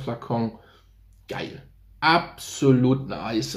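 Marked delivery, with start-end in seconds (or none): 2.0-3.6 slow, with "nice" drawn out and leaned on; stress on nice. Real, not acted. Praising the lavender scent to viewers, stressing "nice". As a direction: savour the word "nice". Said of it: "da liegt die Betonung definitiv auf nice".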